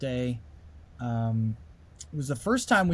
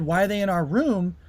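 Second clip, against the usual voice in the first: agitated question; 5 semitones higher, 4 dB louder than usual. Retold or imitated. Dream panic building.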